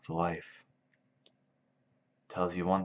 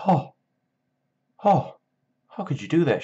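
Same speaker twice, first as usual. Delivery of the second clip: high-pitched mock dismay, louder; shocked, hurt retort; 9 semitones higher, 6 dB louder than usual. Crooks answers the wife's insult, in mock high-pitched hurt. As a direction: imitate a wounded man in a raised, high voice.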